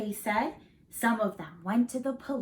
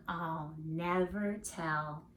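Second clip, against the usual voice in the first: to herself with a smile; 4 semitones lower, 6 dB quieter, slower than usual. Acted. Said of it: "she said to herself with a smile".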